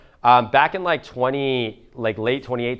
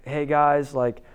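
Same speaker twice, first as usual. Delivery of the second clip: nervous stammering; 4 dB quieter, slower than usual. Retold or imitated. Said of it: "I'm like".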